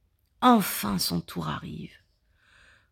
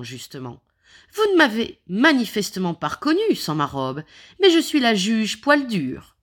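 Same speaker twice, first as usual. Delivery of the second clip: put-on spirited old judge, raised voice; old lady voice; 3 dB louder than usual. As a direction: speak up with vigor. Godmother judge speaks up.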